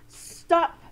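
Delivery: loud, high command; firm stop. Shown as a demonstration. Teacher showing children what to say, firm stop. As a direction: call a firm halt. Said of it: "and say".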